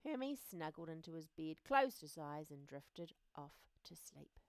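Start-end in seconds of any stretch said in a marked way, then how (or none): 2.5-4.4 whisper. A narrator's reading. Narrator, falling asleep.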